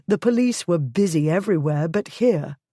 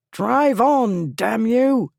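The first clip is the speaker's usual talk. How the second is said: higher, loud furious order; angry shout; 5 semitones higher, 3 dB louder, slower than usual. A narrator's reading. Lord trapped by the mob shouting at his driver, angry shout. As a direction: bark it at the coachman. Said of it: "he shouted".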